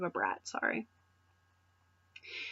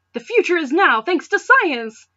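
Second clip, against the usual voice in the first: gloating villain; 7 semitones higher, 9 dB louder than usual. Acted. Clement voiced in read story.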